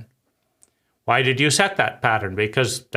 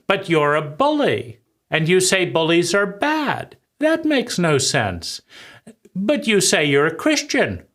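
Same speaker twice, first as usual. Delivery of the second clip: lightly acted teen challenge, pitched higher; rebellious adolescent; 5 semitones higher than usual. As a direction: protest the hypocrisy like a questioning adolescent. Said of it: "the questioning rebellion of the adolescent".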